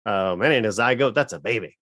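lightly mocking Southern voice; faint Southern accent, stubborn. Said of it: "stop doing Southern voices".

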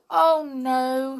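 high, loud little wail; acted tearful protest; tearful denial. A narrator's reading. Tiptoe sadly denies blame, crying.

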